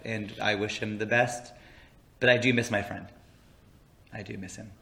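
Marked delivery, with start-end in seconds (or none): 0.1-1.5 villain voice. Acted. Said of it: "with that e-, villain voice".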